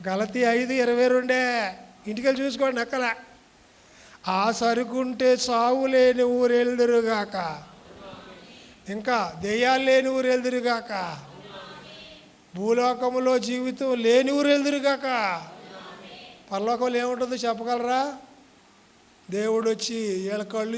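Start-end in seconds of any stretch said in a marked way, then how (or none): 4.3-15.5 loud proclamation. Real, not acted.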